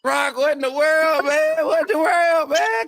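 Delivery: very high, slow, drawn-out squeal; mock disbelief. Real, not acted. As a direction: stretch it out in shocked teasing. Teasing disbelief at friend.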